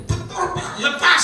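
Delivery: high mock voice of the woman; high, lightly voiced woman; relieved woman's reply. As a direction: answer like a relieved girl.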